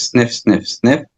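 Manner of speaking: three quick sniffs in; sniffing the air. Shown as a demonstration. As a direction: sniff in through the nose. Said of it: "It's like this".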